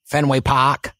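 put-on Boston accent with the R dropped in "Park"; lightly put-on Boston accent. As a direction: say "Park" as "Pahk", Boston style. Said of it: "get a Boston one from you".

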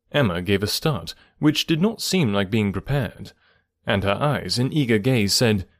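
measured classic-novel narration; story narration. A narrator's reading. Narrator reading Emma's final chapters to listeners, measured storytelling. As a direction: read the novel aloud with deliberate pauses.

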